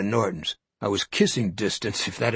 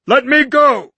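high, loud, frantic cry; a shrill cry to be released; panicked shout; 13 semitones higher, 10 dB louder than usual. Acted. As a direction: struggle free, frantic. Norton struggling.

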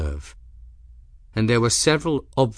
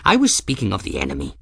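testy; much faster than usual. Acted. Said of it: "Ferris said in a testy voice".

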